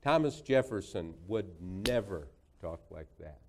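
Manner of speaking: retold worked-up lecture, measured emphasis; Hillary Clinton. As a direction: imitate an indignant senator driving the point home. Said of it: "fist in hand".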